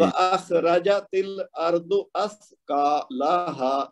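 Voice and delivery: وَأَخْرَجَتِ with short ra-ja, أَثْقَالَهَا with long qaa and haa; short beats, lengthening only in أَثْقَالَهَا; measured vowel lengths. Shown as a demonstration. Teacher models the verse for the student, short and long vowels kept distinct. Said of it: "جہاں پہ زبر وہاں ایک حرکت".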